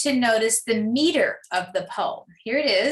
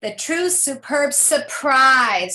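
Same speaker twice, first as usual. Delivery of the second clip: "The true superb surprise" slowly, leaning on SURPRISE; measured "The true superb surprise", rhyme word brought out; stress on rhyme; slower than usual. Shown as a demonstration. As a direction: land hard on "surprise" to show the rhyme. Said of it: "it rhymes with the fourth line".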